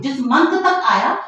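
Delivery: slow, insistent, तक drawn out and stressed. Real, not acted. Principal correcting a parent on the month, stress on तक. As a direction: spell it out slowly, leaning hard on तक.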